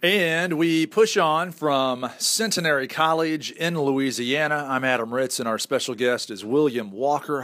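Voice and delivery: slow announcer-style lead-in to a guest; radio show intro. Acted. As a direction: welcome listeners back like a radio host. Radio host reopens the show.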